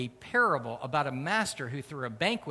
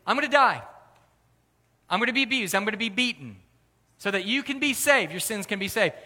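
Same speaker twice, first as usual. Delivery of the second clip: impassioned declaration; 7 semitones higher, 7 dB louder, faster than usual. Retold or imitated. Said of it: "he tells them".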